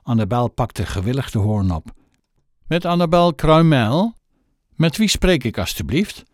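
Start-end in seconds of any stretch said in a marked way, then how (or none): 2.7-6.2 higher, prim telephone voice; girl answering the phone the way mother taught her; posh phone manner. Acted. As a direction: answer like a well-trained little lady. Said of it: "precies zoals moeder het haar geleerd had".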